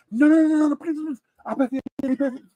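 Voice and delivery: hurried mock begging; imitated pleading. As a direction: plead over any objection, acting it out. Acts dude refusing, insisting on paying.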